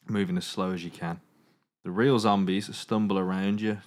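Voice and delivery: steady storytelling narration; game master narration. A narrator's reading. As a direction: narrate the scene to the players. Game master sets the scene.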